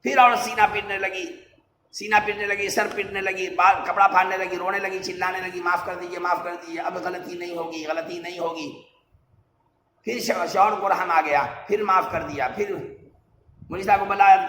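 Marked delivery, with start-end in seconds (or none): 5.6-8.8 softer, a touch of tearful begging; wife softly begging forgiveness, lightly acted; pleading wife. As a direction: plead quietly with the husband, understated. Crying wife begs forgiveness.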